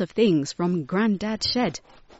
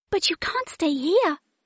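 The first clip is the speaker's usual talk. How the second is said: yelping, pitched very high; 10 semitones higher than usual. Zoe speaks to the dragon that crashed into Grandad's shed; yelped. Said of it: "yelped Zoe".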